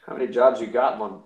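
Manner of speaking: sketch-comedy Jamaican impression; put-on Jamaican sketch character; Jamaican accent. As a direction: slip into a mock Jamaican accent. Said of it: "He's gone into the Jamaican".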